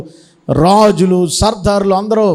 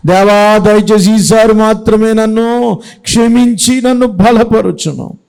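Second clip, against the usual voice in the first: fervent loud prayer; 4 dB louder than usual. Acted. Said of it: "ఇప్పుడు ప్రార్థన చేస్తున్నాడు".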